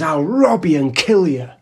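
slow, emphatic tough-guy boast, lightly voiced; imitated threat. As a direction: act out a man claiming his turf. Retelling stranger's threats.

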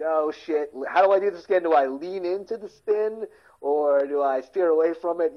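mock a driver fretting in a skid; mock panic.

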